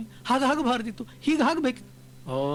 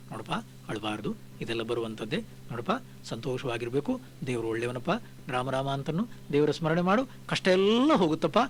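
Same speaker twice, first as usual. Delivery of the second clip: consoling; 4 semitones lower, 3 dB quieter than usual. Retold or imitated. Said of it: "ಅವರನ್ನು ಸಂತೈಸುವುದು".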